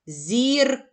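«Зірк» with к split off after зір; isolated final consonant. Shown as a demonstration. Teacher isolating the fourth sound for pupils, detached к. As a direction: pop out the к of «Зірк» separately. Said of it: "Зробимо звуковий аналіз слова зірка".

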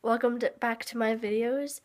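stuffy nose from a cold; sick and nasal, blocked nose. Real, not acted. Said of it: "sorry if my voice sounds, like, kinda nasally".

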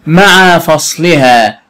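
drawn-out phrase reading; slow teacher reading of the phrase. Shown as a demonstration. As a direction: read slowly, word by word. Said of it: "teacher reads phrase slowly".

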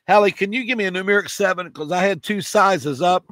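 throat catching between words; choking. Real, not acted. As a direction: push through a tickle in the throat. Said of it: "If I can quit choking here".

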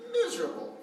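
"miserable" flung out high, laughing; stress on miserable. Real, not acted. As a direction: hit "miserable" hard with a laugh. Stressing two years of misery.

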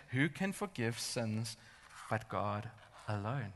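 very slow, measured question; grave requoting. Retold or imitated. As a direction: quote it slowly, letting each phrase settle.

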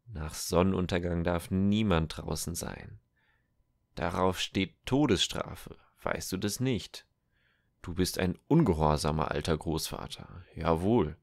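put-on bully the old man with the law; harsh soldier. Tengil's rider threatens Matthias, loud and menacing.

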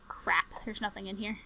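disappointed whisper; real letdown whisper. Real, not acted. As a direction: sigh it out hushed.

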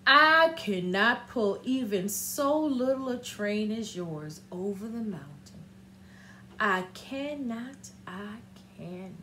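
put-on low, fading old engine voice; tired old engine.

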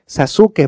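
Sasuke as "sa-SU-ke", the U sounded; full-U pronunciation. Shown as a demonstration. Teacher spelling out the U, full-syllable pronunciation. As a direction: say Sasuke in three clear syllables. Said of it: "la U la dice".

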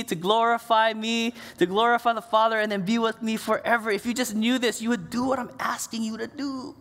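Jesus pleading. Retold or imitated. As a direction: plead with your friends to understand. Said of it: "he's pleading with the disciples".

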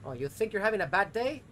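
sarcastic, rising irritation; exasperated. Real, not acted. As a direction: start the rant annoyed. Ranting at game character.

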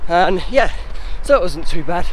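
talking mid-run, a little breathy; while running. Real, not acted. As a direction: speak as if jogging. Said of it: "just finished the first K".

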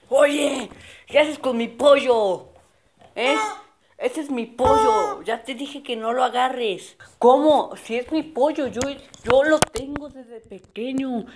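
put-on a spoiled kid claiming what's his; bossy rival kid. Rival kid tells him the chicken is his, bossy.

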